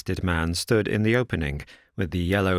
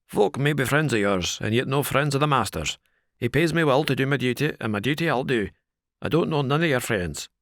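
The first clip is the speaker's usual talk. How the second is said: rough servant's firm refusal; unbending doorman, not an inch given; inexorable porter; 5 semitones higher than usual. A narrator's reading. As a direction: porter turning Thaddeus away, firm and rough.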